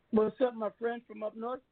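rough, raspy voice; sandpaper voice. Real, not acted. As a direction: voice worn rough. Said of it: "my voice sound like, like, uh, sandpaper".

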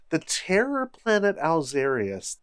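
"terror" stretched with a falling tune; dramatic quote. Retold or imitated. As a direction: quote "The terror planet Alzarius" grandly. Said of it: "taken directly from the text of the book".

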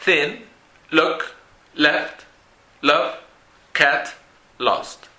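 "Thin, look, left, love, cat, lost" each with a short vowel; word list Thin, look, left, love, cat, lost, vowels kept short, pauses between; short vowel demo. Shown as a demonstration. Teacher repeats Thin, look, left, love, cat, lost for learners, short vowel demo. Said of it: "todos los sonidos son cortos".

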